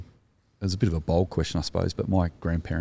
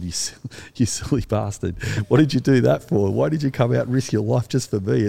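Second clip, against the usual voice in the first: retelling a laughing soldier, higher and louder; laughing disbelief; 6 semitones higher, 5 dB louder than usual. Retold or imitated. Wounded soldier teases his rescuer, laughing and raised. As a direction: chuckle through it, incredulous at his mate. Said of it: "we both sat there laughing at each other and said".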